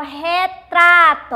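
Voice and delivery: "retrato" slowed, with a strong "tra"; stress on TRA. Shown as a demonstration. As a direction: lean hard on the middle "tra" of "retrato". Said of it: "é a sílaba tônica". ("retrato" devagar, com força no "tra")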